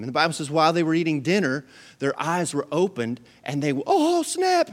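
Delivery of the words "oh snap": high, startled "oh snap"; a comic jolt of realising; mock surprise. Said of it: "That's paraphrasing".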